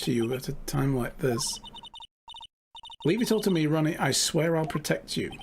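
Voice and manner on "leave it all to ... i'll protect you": lightly voiced doting wife, sweetly protective. Desiree reassuring Ron.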